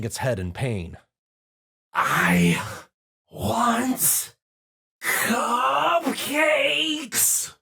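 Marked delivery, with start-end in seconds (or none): 1.9-7.5 loud roaring monster demand. A narrator's reading. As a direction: roar out the craving. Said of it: "it roared out".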